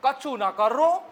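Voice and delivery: a mock-loud village retort; loud reply. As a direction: drag it out loud, mouth wide open. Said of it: "कितना जोर से बोलेंगे".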